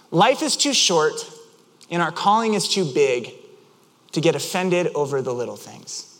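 deliberate phrases with pauses between; lightly imitated dreamy pronouncement; as if in a trance. Friend looking up to the sky, lightly trance-like. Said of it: "a trance when he said it".

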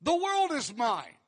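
mock the idea of needing their gift; total sarcasm. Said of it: "This total sarcasm right here".

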